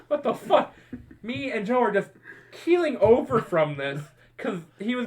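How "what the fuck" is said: high, half-yelled disbelief; spooked and confused; startled outburst. Retold or imitated. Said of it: "He's like".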